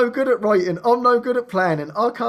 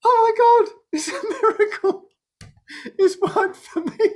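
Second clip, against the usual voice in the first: excited client; 13 semitones higher, 3 dB louder than usual. Retold or imitated. Client calling about success.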